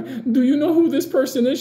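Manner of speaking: high-pitched imitation of a rattled agent; high, agitated quoted question; imitated freak-out. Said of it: "freaking out".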